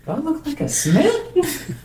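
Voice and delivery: high, slow, laughing question; mock offended, laughing; laughing protest. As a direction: giggle through the complaint. His retold reply, laughing.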